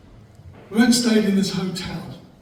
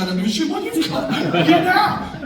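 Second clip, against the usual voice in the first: mock angry shout; 8 semitones higher than usual. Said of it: "I said".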